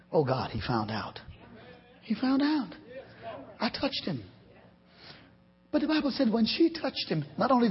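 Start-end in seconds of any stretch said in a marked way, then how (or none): 0.1-4.2 hushed, softer frightened woman; a touch of trembling fear, kept soft. Acted. Woman caught after touching Jesus, soft trembling fear. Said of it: "trembling, trembling".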